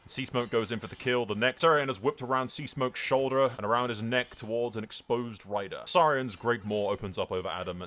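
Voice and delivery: energetic first-person war storyteller; rousing battle account; dramatic battle narration. A narrator's reading. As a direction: narrate the fight as it unfolds.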